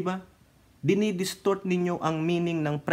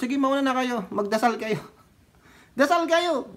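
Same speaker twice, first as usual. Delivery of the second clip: mocking invitation; 8 semitones higher than usual. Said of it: "sabi ni Samuel".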